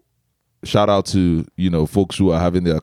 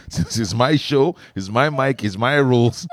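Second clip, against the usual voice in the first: higher-pitched mock bossy claim; playful insistence; 5 semitones higher than usual. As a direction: lay down your rules, pitched up. Playful insisting on own rules.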